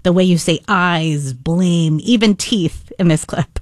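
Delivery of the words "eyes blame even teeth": lingering on the vowels; drawn-out syllables. Shown as a demonstration. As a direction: stretch out each syllable a little. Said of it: "the syllables get drawn out".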